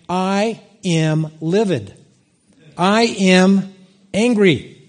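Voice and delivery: slow, deliberate retold anger, rising at the end; mounting anger. Preacher recalling being livid on the drive, mounting anger. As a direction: spell out the anger one word at a time. Says how livid he was.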